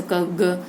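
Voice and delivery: क, ग as short sounds with little air; short, unaspirated. Shown as a demonstration. Teacher demonstrates alpapran letters, क, ग short and unaspirated. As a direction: cut क and ग short, no puff. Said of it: "थोड़ा कम समय लगे".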